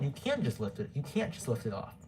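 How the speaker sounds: words slurred by braces; speaking around new braces. Real, not acted. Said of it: "Sorry if my braces are making me, uh, it's hard to understand it".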